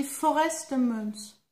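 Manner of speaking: slow English words with a French accent. Real, not acted. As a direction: read the English name slowly in a real French accent. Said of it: "je parle très très mal l'anglais". (anglais avec accent français)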